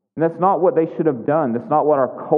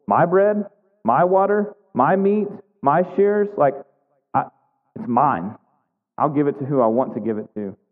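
possessive, grabbing each word: my bread, my water; a miser clutching what is his, mildly voiced; stingy sneer. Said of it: "hear the stinginess in his voice".

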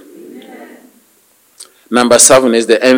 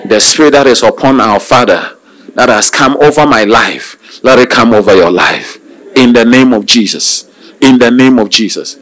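firm, emphatic blessing over a congregation; prayer declaration; 3 dB louder than usual. Real, not acted. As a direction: proclaim it as a prayer over the listeners.

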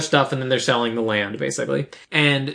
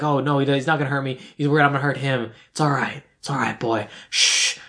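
soothing a horse; 2 semitones lower than usual. Retold or imitated. Calming a spooked horse.

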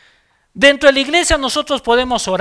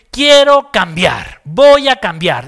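firm resolve; 6 dB louder, slower than usual. Acted. Preacher models a firm decision.

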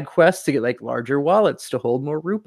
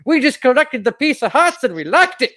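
lightly voiced grumpy old man, higher; a hint of an old man on a porch; 10 semitones higher, 3 dB louder than usual. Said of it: "very old man on a porch scenario".

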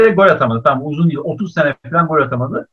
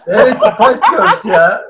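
slow, louder, laughing through the words; 4 semitones higher, 6 dB louder, much slower than usual. Real, not acted. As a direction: laugh it off, a bit sheepish. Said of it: "bir kız grubu dedi adam ya".

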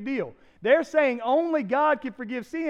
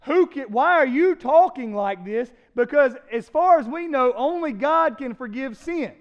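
mildly hammed-up protest, louder; objecting scribes; 6 dB louder than usual. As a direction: imitate indignant experts cutting in loudly. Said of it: "The scribes and the Pharisees and the lawyers".

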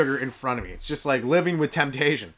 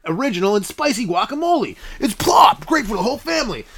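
much higher, loud, shouting commercial read; hyped ad announcer; 7 semitones higher, 5 dB louder than usual. Acted. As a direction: hype the product like a cheesy ad. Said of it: "I got a commercial coming up".

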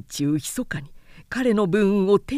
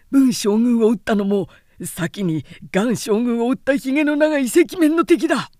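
loud, higher frightened report; panicked soldiers' report; 3 semitones higher, 5 dB louder than usual. Acted. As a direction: blurt it out, still running from the fight. Fleeing soldiers crying out reports.

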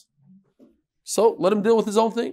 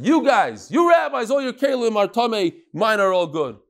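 pitched up, lightly imitated cheeky retort; mock chutzpah; 4 semitones higher than usual. Unlearned man talks back to the rabbis, mildly chutzpahdik. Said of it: "And then he's chutzpahdik".

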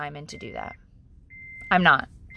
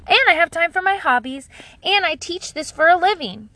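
lightly mocking, bouncy show-off voice; dumb voice; 2 semitones higher than usual. Reading out an expert mom's boast, mock dumb voice. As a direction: reel it off in a hint of a silly, self-satisfied voice. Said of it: "I'm gonna read it in my dumb voice".

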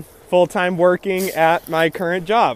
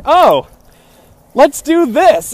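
eager, higher, slow let's go; 9 semitones higher, 5 dB louder, slower than usual. Retold or imitated. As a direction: pump everyone up, slowly. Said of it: "Steven was like".

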